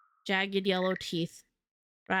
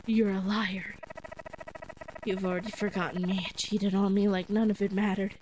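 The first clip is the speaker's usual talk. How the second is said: hurt ghostly accusation. Acted.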